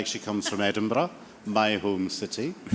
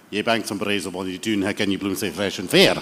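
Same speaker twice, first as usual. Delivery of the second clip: broad Scottish accent reciting verse; 2 semitones lower than usual. Shown as a demonstration. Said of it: "if I go into my Scottish accent properly".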